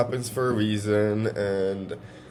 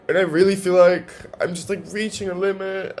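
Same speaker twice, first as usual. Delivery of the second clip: crying; 4 semitones higher than usual. Real, not acted. Vlogging to viewers about loneliness, tearfully crying. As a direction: voice pitched up and wobbling through tears. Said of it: "I don't know why I'm crying".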